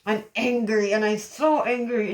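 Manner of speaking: gritted-teeth anger. Shown as a demonstration. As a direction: say it with teeth clenched. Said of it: "you're seeing my teeth just gritted".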